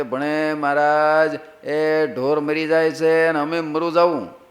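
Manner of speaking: drawn-out, imitated wail to the Maharaj; mock tearful plea. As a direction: plead slowly, as if weeping, lightly acted. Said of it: "દરબારો રડતા રડતા કે". (રડતા રડતા આજીજીની નકલ)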